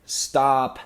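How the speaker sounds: retold urgent plea; loud pleading. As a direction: raise the voice to break up the fight. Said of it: "I was like".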